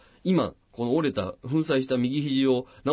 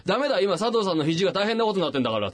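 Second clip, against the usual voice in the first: higher, hurried refusal; imitated urgent doctor; 6 semitones higher, faster than usual. Doctor turning down paramedics for his patient, higher hurried imitation. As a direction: cut in urgently, as a doctor would. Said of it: "お医者さんの先生が言ったわけよ".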